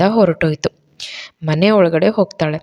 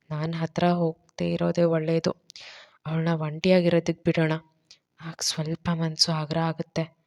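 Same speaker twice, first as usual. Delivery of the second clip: thinking to himself; 9 dB quieter than usual. A narrator's reading. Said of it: "ಅನ್ಕೊಂಡು".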